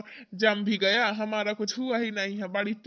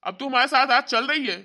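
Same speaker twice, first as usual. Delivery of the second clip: scolding; 2 semitones higher, 4 dB louder than usual. Acted. Brother scolds sister.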